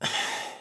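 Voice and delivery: soft short sigh. Acted. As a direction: let out a quiet breath. Villain pauses, exasperated by hero.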